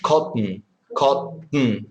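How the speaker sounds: Cotton with the t swallowed into the n; Cotton, the middle t going straight into n. Shown as a demonstration. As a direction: Cotton with a glottal t. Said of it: "like when you're swallowing".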